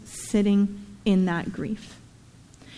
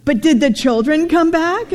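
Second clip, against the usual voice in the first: put-on girl's question; 5 semitones higher, 5 dB louder than usual. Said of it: "then she goes".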